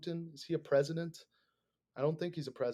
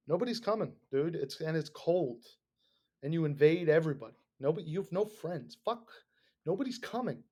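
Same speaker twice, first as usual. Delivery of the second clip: real exasperation, pitch climbing; exasperated rant; 2 semitones higher than usual. Real, not acted. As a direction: nag him that nobody will come. Ranting at Putin.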